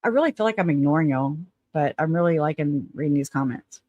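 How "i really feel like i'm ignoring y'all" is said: talking around a cigarette; words past a lit cigarette; cigarette in mouth. Real, not acted. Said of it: "Let me light my cigarette".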